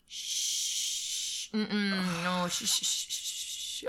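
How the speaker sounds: soft hushing; quiet hushing to shut him up. Retold or imitated. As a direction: shush them down. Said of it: "B P guys were like".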